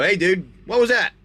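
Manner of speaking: playful reprimand after a smack; sharp rebuke. Pretend. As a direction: call out a pretend telling-off. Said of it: "smack him across the back of the head".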